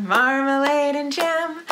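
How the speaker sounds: ordinary delivery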